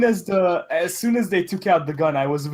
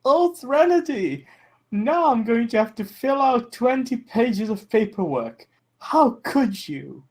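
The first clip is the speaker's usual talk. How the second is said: nasally boss voice; 6 semitones higher than usual. Retold or imitated. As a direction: mimic the boss with a nasal whine. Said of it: "she adopted my boss's nasally voice".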